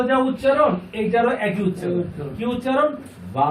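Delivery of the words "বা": বা with the aa held long; long madd. Shown as a demonstration. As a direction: draw out the vowel of বা evenly. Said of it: "এক আলিফ মাদের ব্যবহার".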